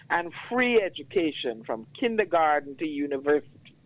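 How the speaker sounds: spoken-word poem, rising in force at the close; poem recitation. Acted. Reads his poem aloud.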